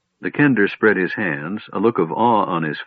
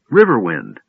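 bursts out the name eagerly; the kender eagerly prompting the old man; excited; 2 semitones lower, 4 dB louder than usual. Acted. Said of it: "said Tass in excitement".

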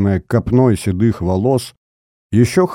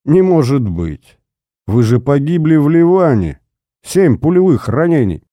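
astonished exclamations; can't believe a dead man walked in; old man stunned by a ghost; shocked disbelief; 5 semitones higher, 3 dB louder than usual. Acted. Nosov shocked to see him alive.

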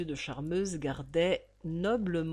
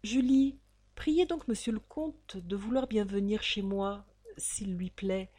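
gentle voice; 2 semitones higher than usual. Acted. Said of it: "D'une douce voix de pitié".

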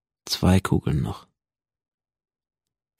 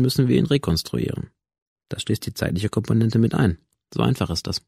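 lightly voiced doctor, higher, matter-of-fact explaining; a hint of a detached expert; lecturing scientist; 5 semitones higher than usual. (leicht angedeuteter, sachlich dozierender Arzt)

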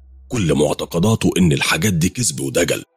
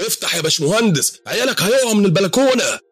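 higher, urgent voice through the door; calling out. Acted. Neighbors at the door calling the engineer, higher urgent voice. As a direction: urge them to open up, pitched high.

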